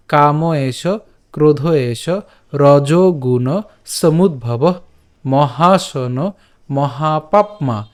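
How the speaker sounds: slow phrase-by-phrase verse reading; slow recitation. Shown as a demonstration. Teacher reads the verse off the slide slowly. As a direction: read each phrase slowly. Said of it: "শ্রী ভগবান উবাচ".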